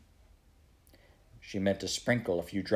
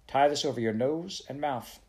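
slightly raised, firm instruction; commanding; 4 semitones higher than usual. Acted. Prue handing Mary Joe a wet cloth, commanding. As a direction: give it as an order. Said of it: "she commanded".

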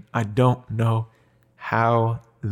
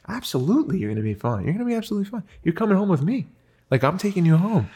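lightly voiced father soothing his child, higher-pitched; retold reassurance; 7 semitones higher, faster than usual. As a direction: reassure gently in a raised, tender pitch.

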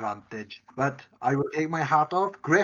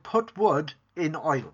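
slow mock Yorkshire accent; imitating Yorkshire accent; slower than usual. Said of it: "it sounded like you said".

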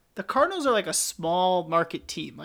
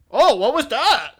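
high, loud, slow mock alarm; hammed-up shot cry; 9 semitones higher, 10 dB louder, slower than usual. Archduke shot again.

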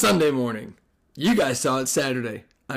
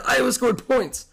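high laughing disbelief; 11 semitones higher than usual. Real, not acted. Laughing at Iowa's rare score.

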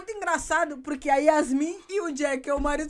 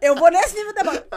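mocking tone; 7 dB louder than usual. Shown as a demonstration. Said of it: "o deboche é aquele".

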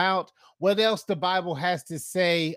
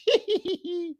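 much higher angelic giggle; holy laugh; 12 semitones higher than usual. Shown as a demonstration. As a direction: laugh like a saint, high. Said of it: "let me do a, a holy laugh".

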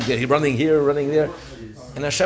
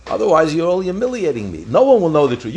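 higher-pitched, acted coaxing; pleading; 4 semitones higher than usual. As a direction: plead like an embarrassed ruler saving face. Embarrassed Caesar pleading with boy.

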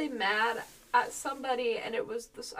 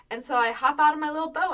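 normal talking voice

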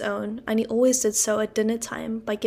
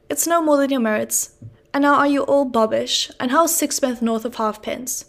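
pompous uncle; 3 semitones higher, 4 dB louder than usual. Acted. Uncle Pumblechook patronising the family at Christmas, loud and pompous. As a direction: puff up like a pompous old uncle.

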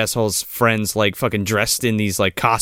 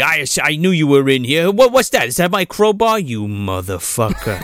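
mock angry Sarge; 3 semitones higher than usual. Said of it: "And he's like".

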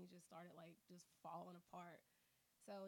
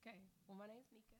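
shy; 6 dB quieter, faster than usual. Real, not acted. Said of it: "You sound all shy".

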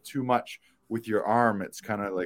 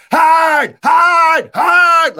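yelling; 15 dB louder, much slower than usual. Retold or imitated. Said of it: "who are like".

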